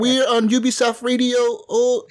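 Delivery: nasal, congested Hispanic radio-host parody; mock Hispanic radio host. Mocking the game's radio hosts to friends, nasal Hispanic accent. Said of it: "they all talk like that".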